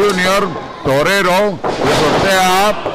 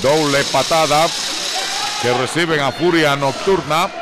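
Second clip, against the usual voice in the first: wrestling commentator. Acted. Live wrestling play-by-play.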